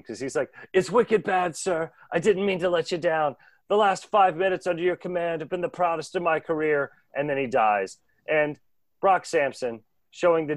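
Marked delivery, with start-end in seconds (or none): 0.7-6.9 lightly voiced Boston henchman, a touch higher; a dying henchman's farewell in a mild Boston accent. Dying henchman thanks his commander in a light Boston accent. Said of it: "he's clearly from Boston".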